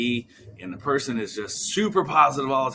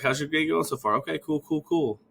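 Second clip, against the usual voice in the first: filler habit; 4 semitones higher than usual. Retold or imitated. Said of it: "they're like".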